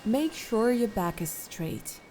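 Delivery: calm, unhurried instructions with long pauses; guided meditation. Acted. Meditation guide settling listeners into posture and breath, calm guided meditation. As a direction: lead them gently through settling and breathing.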